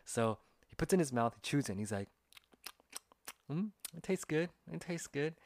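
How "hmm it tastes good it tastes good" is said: high-pitched tentative verdict; imitated coworker tasting. Shy coworker trying dried squid, high imitated voice. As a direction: mimic a brave taster in a high voice.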